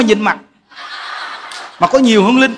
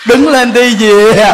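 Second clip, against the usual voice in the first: loud, drawn-out order; slow, emphatic put-on command; mock dismissal; 5 dB louder, much slower than usual. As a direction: send her away in comic exasperation. Acted dismissal of the laughing woman.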